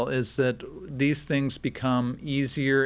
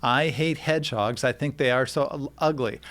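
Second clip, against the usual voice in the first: synthetic voice clip; cloned voice recording; deepfake audio playback; 6 dB louder than usual. Shown as a demonstration. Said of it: "Go ahead, Travis".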